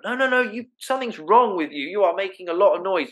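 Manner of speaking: mock irritated mother in labour; labouring woman. Labouring woman telling the panicking visitor to leave, lightly voiced and irritated. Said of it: "the woman might be going".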